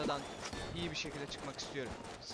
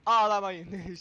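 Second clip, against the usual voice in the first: mock loud tease; 3 semitones higher, 11 dB louder, much slower than usual. Real, not acted. Teasing viewers.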